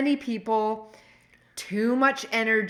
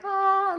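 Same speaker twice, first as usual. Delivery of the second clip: acted-out yawn, higher pitched; imitated yawn; 11 semitones higher than usual. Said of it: "like, yawning".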